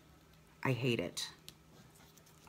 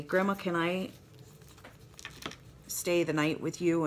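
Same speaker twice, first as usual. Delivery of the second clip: grandson's request; 2 semitones higher than usual. Retold or imitated. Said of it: "he'll say".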